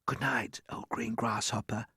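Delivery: soft unvoiced whisper. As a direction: whisper it so nobody wakes. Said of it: "he whispered".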